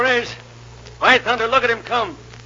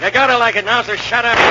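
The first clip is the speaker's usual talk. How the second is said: angry; 5 semitones higher, 6 dB louder than usual. Acted. Villain snaps at partner.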